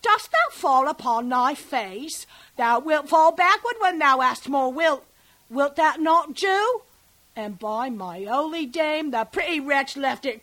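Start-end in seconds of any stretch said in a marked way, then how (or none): 0.0-6.8 mock merry husband, louder; husband's jest. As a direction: tease the baby like a jolly husband. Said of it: "quoth he".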